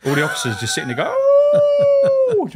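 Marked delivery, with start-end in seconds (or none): 1.1-2.5 long high loud howl; wolf howl. Retold or imitated. Officers joining Charlie's wolf howl, long and high. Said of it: "howl like a wolf".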